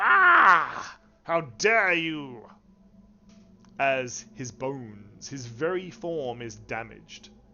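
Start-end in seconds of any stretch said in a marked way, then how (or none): 0.0-2.5 very loud, crying undead monster character voice. Voicing the Lich as its bones are damaged by thunder: voicing the Lich. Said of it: "The Lich says".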